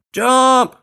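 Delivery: one very loud, high command; explosive high-pitched shout; roar. A narrator's reading. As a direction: roar the order. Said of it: "roared Earl".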